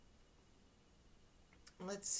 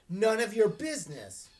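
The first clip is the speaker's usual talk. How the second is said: louder, tight and angry; seething reply; 4 semitones higher, 6 dB louder than usual. Acted. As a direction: Wallace snapping back at his ex-friend, seething. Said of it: "I seethed".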